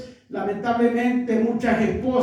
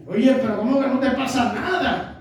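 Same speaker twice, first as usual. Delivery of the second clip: laughing disbelief; faster than usual. Retold or imitated. Retold husband pressing wife.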